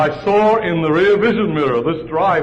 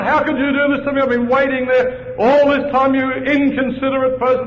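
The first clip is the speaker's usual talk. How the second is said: angry Frenchman shouting; 9 semitones higher than usual. Retold or imitated. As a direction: mimic the deli owner yelling at you. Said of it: "and he shouted at me".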